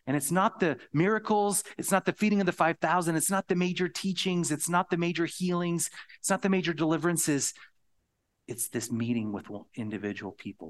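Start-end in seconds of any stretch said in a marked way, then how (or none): 0.1-7.5 preacher hammering each point; emphatic rising list. Real, not acted. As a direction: build the list with force.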